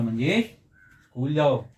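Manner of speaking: giving an order. Shown as a demonstration. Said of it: "हमने एक तरीके से बोल के आदेश दिया".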